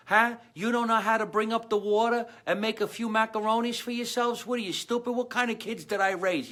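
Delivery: high-pitched scolding mama voice; Italian mother scolding. Retold or imitated. Mother scolds her son for eating a sub, high and shrill-pitched. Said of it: "She goes".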